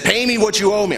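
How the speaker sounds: put-on a kids' story grab-by-the-throat demand; harsh demand. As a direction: demand the money like a bully. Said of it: "grabbed that man by the throat".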